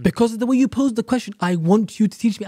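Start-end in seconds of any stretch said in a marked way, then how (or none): 1.4-2.5 mildly demanding, a little raised. Acted. Student putting a demand to a teacher, mildly demanding. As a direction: pose it as a demand. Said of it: "as if you're demanding".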